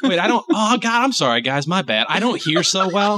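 the devil sheepishly owning up; apologetic devil. Pretend. Devil apologizing, hard of hearing.

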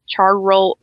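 "char roll" split in two with a full R; laboured R. Shown as a demonstration. Showing a hard town name, laboured "char roll". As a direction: break "char roll" apart to force the R. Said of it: "hard for me to say the R".

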